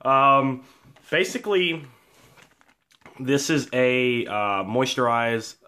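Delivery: panting after running upstairs; breathless, gasping between words; out of breath. Real, not acted. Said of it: "now that I'm out of breath".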